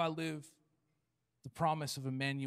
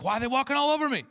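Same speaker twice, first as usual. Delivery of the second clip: much higher, loud, fast whine; whiny complaint; 9 semitones higher, 7 dB louder, much faster than usual. Retold or imitated. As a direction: whine like a wounded believer.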